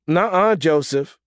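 high-pitched, teasing refusal; mock-scolding mother; refusing mother. A narrator's reading. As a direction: refuse firmly in a lifted voice. Mother refuses phone, amused.

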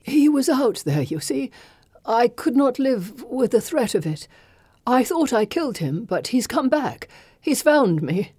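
fevered rambling, rising panic; delirious fear. Acted. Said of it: "in his delirium".

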